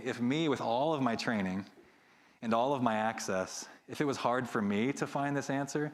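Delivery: muffled speech behind a mask; through a face mask. Real, not acted. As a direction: talk with a mask over your mouth. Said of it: "can you hear me with the mask on okay?".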